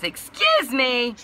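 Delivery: high, loud, drawn-out, cracking imitation; voice going out. Dispatch woman interrupting, imitated with a cracking voice. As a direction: voice giving out like a boy in puberty. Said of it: "my voice is going out, so I sounded like a boy going through puberty".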